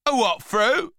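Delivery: loud, high incredulous question; baffled boy. A narrator's reading. Boy hears of grapefruit, loud high bafflement. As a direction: shoot it back loudly in disbelief.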